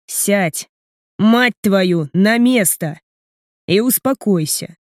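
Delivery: understated cold command, each word set apart; controlled and icy, stressing every word; cold, measured emphasis. A narrator's reading. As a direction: give the order coolly, pausing between phrases. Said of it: "Холодно произношу я, выделяя каждое слово".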